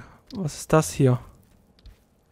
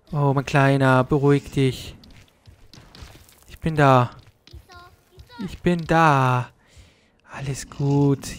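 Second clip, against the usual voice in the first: soothing; slower than usual. Real, not acted. Soothing frightened game creature.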